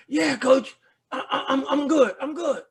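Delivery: high, laughing insistence that he's fine; a dazed player laughing off the hit; brushing it off. Retold or imitated. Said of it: "I said".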